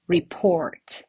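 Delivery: "report" said ri-PORT; stress on second syllable. Shown as a demonstration. Teacher repeating the identical form, "report" stressed on the second syllable. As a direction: land on the end of "report", then fall. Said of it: "with the same pronunciation".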